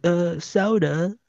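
high, halting put-on British voice; British accent. Imitating the lady on the plane, high British accent. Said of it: "I heard a British accent".

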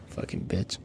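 whispered under the breath; whispered insult. Real, not acted. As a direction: hiss it off-mic. Muttered insult after sign-off.

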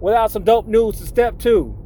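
a lightly voiced hype radio host; hype host persona. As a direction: open the segment like a radio personality. Segment persona intro.

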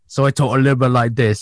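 a rough attempt at an action star's voice; Jason Statham. Shown as a demonstration. Player demonstrating his ranger character, crappy action-star voice. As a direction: do a lightly put-on, bad action-hero imitation. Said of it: "I do a really bad Jason Statham, uh, imitation".

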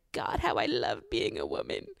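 low, a hint of a TikTok clip voice; TikTok sound. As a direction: lightly mimic the viral audio. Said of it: "that TikTok sound plays in my head".

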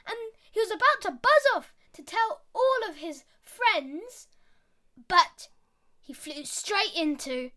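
put-on lively storyteller voice for kids; story narration. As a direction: read it like a bedtime fable. Storytelling a fable.

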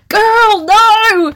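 high, loud wail of disbelief; exasperated cry. Real, not acted. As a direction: cry out in protest, drawn out. Scolds her younger self's heroine.

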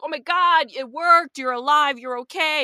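loud, high burst of relief; overjoyed crying out. Pretend. Player's character seeing her dead dad alive, loud relieved cry. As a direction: cry out in disbelieving joy. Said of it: "and you're crying".

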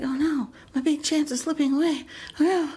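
comic inner wail; mock dismay. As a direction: play up a little despair. Acting out panic at losing chance.

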